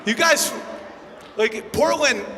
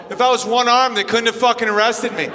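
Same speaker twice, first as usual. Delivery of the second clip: indignant brother. Retold or imitated. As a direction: push it out like he's offended. Brother's indignant reply acted.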